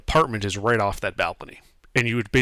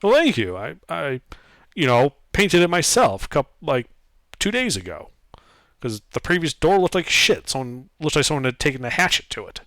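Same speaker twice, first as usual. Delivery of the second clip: proud half-orc, raised pitch; 4 semitones higher, 3 dB louder than usual. Acted. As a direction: boast like a prickly brute.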